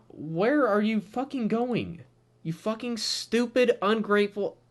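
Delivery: real irritation at the character, drawn out; fed-up slow rant at a comic character; getting angry. Real, not acted. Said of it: "I'm getting angry".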